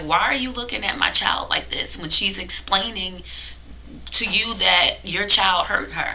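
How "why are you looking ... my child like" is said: usual speaking voice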